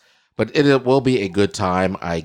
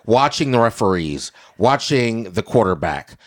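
scene painting. Acted. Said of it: "let me paint the picture".

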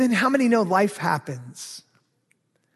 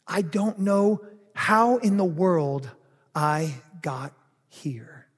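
bewildered confession; slower than usual. Acted. Pastor voicing someone lacking self-control, slow bewildered admission. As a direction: drag out each word as if at a loss. Voices someone lost in habits.

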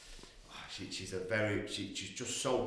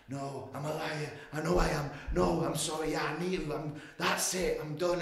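higher, pleading retold confession; acted desperate pleading; 7 semitones higher, 4 dB louder than usual. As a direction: give in desperately, pitch raised. Acts out his own desperate confession.

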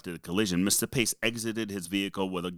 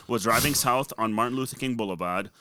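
Boston accent; 2 semitones higher than usual. Real, not acted. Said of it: "you have such a heavy Boston accent".

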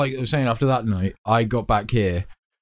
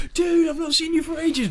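put-on drunken greeting; 13 semitones higher than usual. Drunk self greeting Martin.

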